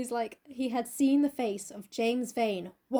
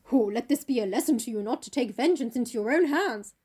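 mock lofty lecturing, slightly louder; high and mighty; 4 dB louder than usual. Dorian lectures Jim after escaping, high and mighty. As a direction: deliver a hammed-up superior sermon. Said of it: "Dorian Gray gets all high and mighty".

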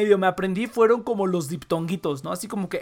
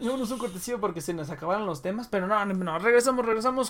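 laughing; 4 dB quieter than usual. Real, not acted. Laughing break call.

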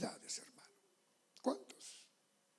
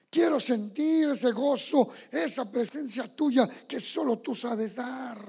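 fervent prayer; 5 dB louder than usual. Retold or imitated. Prayer swells after whisper.

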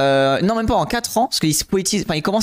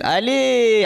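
excited donation thanks; 7 semitones higher than usual. Real, not acted. Streamer cheers a donation.

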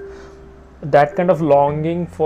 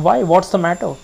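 measured, slightly lifted reading voice; poem reading. A narrator's reading. Reader sharing a favourite poem with listeners, measured reading. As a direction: read the poem steadily, savouring the lines. Reads Jeffers poem aloud.

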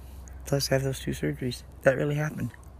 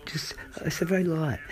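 whispering; 3 semitones higher than usual. Real, not acted. Vlogger summing up her hardships, whispering. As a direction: keep it a hushed whisper. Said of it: "sorry for whispering".

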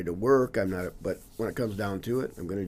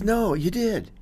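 retold holler; 12 semitones higher, 8 dB louder, slower than usual. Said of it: "He kinda hollers and goes".

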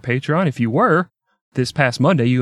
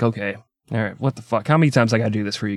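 softer, grudging mock resignation; a touch of exasperated priest; muted, put-upon complaint; mildly fed-up priest; 2 semitones lower, 3 dB quieter, faster than usual. Weary priest voiced at deathbed.

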